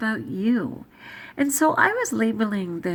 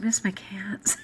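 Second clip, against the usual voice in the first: students' scolding. Retold or imitated. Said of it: "my students have heard me and said".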